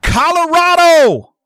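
high, loud, drawn-out Colorado!; cheering. Real, not acted. Radio host rooting for his team, long cheer. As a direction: cheer it out like a fan.

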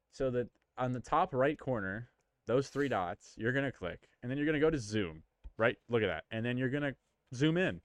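condescending. Acted. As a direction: explain it like to a child. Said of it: "I sound so condescending right now".

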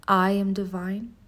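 slow, rising affirmation. Shown as a demonstration. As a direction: declare it slowly. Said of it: "Say it with me".

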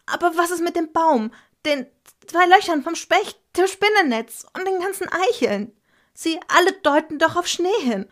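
put-on a kid insisting all the signs meant snow; child protesting to father, high and loud; upset child. A narrator's reading.

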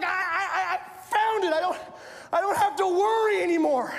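acted stammering excitement; breathless excitement. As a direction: play someone thrilled and relieved at a find. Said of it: "There was so much excitement".

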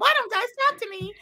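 high, whiny mocking girl voice; whiny girl imitation. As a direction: whine it like a lonely girl. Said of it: "She's like".

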